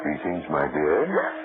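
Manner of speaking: low, slow and hushed sinister greeting; quiet menace. Acted. Husband greeting his frightened wife with slow hushed menace. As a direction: purr it slowly, low and soft.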